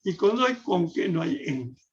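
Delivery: accent on "con", then on "en", leaving each "que" unstressed; stress on CON and EN. Shown as a demonstration. Turning the wordplay round, stress on "con" and "en". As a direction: set "con" against "en" by stressing both. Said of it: "pongamos el acento en la O".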